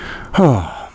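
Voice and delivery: long exhaled sigh; exasperated sigh; weary sigh. Real, not acted. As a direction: let out a heavy breath. Weary pause amid the rant.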